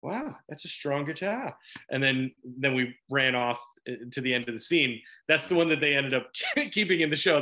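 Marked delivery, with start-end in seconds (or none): 0.0-1.5 put-on Boston accent. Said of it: "kinda did an ad lib".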